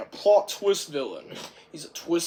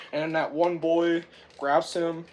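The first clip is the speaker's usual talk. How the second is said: usual speaking voice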